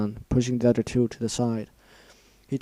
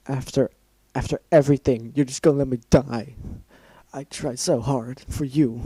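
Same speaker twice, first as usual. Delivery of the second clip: crying; 2 semitones higher, 5 dB louder than usual. Acted. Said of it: "her throat hurt from the crying and shouting".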